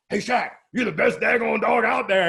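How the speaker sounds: praising the dog. Retold or imitated. Owner praising his little Pomeranian, high and gushing. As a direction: lay on the praise like talking to a pet. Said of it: "I can tell little Shaq".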